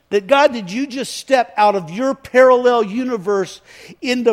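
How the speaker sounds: loud, high, swelling appeal to God; impassioned prayer. Retold or imitated. Preacher marvelling to God at the encounter, impassioned and loud.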